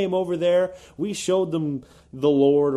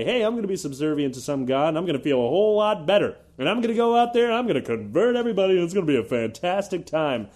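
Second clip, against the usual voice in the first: mock convert; 3 semitones higher, 3 dB louder, faster than usual. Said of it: "suddenly say".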